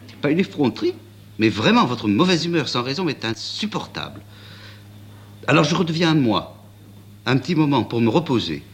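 put-on a young woman speaking frankly to the prince; young woman's voice. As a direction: frank and earnest, speaking her mind.

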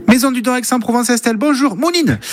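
high-pitched mock receptionist greeting; imitated switchboard voice, held high to the last word; Estelle answering phone. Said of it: "répond au téléphone et ça donne ça".

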